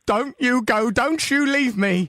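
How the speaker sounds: rising, slowing, hammed-up plea; mock pleading. Friend hams up begging a dying buddy to stay. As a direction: beg him not to die, overacted.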